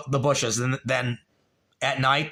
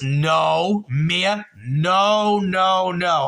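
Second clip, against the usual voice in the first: raised, insistent no, no, no; louder and higher, cutting off a chat comment; loud denial; 4 semitones higher, 4 dB louder, much slower than usual. Real, not acted. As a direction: shout the denial down, pitched higher. Loudly denying a viewer's claim.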